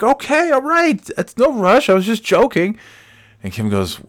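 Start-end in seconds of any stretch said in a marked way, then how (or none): 0.0-2.8 squeaky high placating; high mock backpedal. Husband backing down from his wife, high and meek. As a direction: back off in a tiny high voice.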